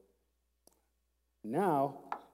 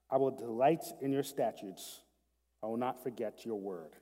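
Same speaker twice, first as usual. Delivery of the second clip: measured, slightly raised reading of the psalm; scripture reading; 4 dB louder, slower than usual. Acted. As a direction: read the verses aloud with care. Reads the psalm aloud.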